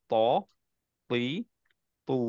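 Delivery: tajweed teacher modelling the short madd; two-count vowel demo. Shown as a demonstration. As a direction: stretch ত, তি, তু each for two counts. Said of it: "এটাকে আমরা দুই count দিয়ে পড়ি".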